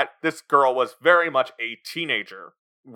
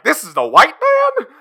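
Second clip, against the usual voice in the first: 1 mock Colonel Parker accent; 12 semitones higher, 6 dB louder than usual. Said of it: "And Tom Hanks is like".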